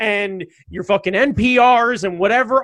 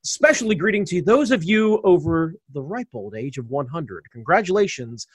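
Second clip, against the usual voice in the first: ringmaster. Pretend. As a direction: roll it out like a circus ringmaster. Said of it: "hit me with the intro".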